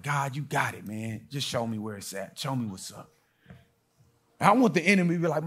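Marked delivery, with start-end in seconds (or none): 0.0-3.1 soft, low trusting prayer; quiet surrender. Retold or imitated. Preacher trusting God to find the car, hushed. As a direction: hand it over to God softly. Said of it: "I was like".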